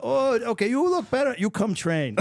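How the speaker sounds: put-on high, loud Asian-accented coach approving; satisfied old master in a thick Asian accent. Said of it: "this Asian accent you're doing".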